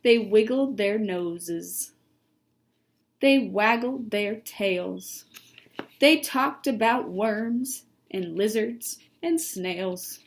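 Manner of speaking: slow, measured storybook narration; unhurried picture-book narrator; reading to children. A narrator's reading. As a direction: read each phrase slowly and distinctly.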